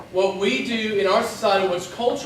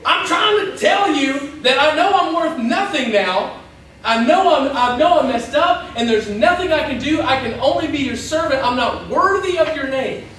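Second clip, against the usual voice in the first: raised-pitch, pleading insistence; insistent confession; 3 semitones higher than usual. Acted. Son confessing to his overjoyed father, insistent. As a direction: press the confession over all interruptions.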